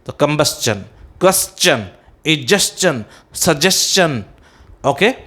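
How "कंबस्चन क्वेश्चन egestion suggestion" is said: "कंबस्चन, क्वेश्चन, egestion, suggestion" each ending in a clear "chun"; correct -stion pronunciation. Shown as a demonstration. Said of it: "these are the correct pronunciation".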